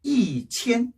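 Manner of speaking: "이" falling, "첸" high and level; fourth tone then first. Shown as a demonstration. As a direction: drop on "이", then hold "첸" level. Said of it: "사성 이로 변해요".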